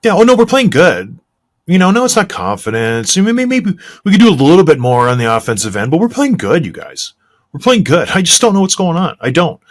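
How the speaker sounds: a hint of a defensive coach; mock clueless coach. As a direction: play the coach who insists all is fine. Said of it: "mocking the coach's denial".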